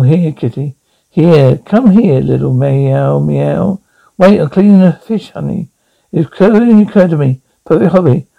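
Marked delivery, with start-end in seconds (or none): 0.0-3.8 slow, coaxing call to a kitty; coaxing a cat. Acted. Man coaxes the missing cat to come to him, slow and coaxing. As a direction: lure the cat in gently.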